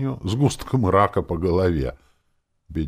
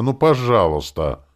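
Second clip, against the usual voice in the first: loud plea; 7 semitones higher, 7 dB louder than usual. A narrator's reading. Герой умоляет призрак жены.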